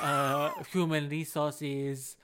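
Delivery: slow, emphatic botched Chinese accent; German attempt slipped into Chinese accent; mock Chinese accent. Shown as a demonstration. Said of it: "it goes into, like, some Chinese, like, voice".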